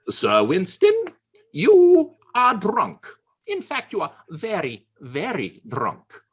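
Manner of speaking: high, loud, slow shrilled accusation; scolding woman. Acted. Teetotal woman scolding drunk Churchill, high and loud. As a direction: scold him like a prim teetotaler.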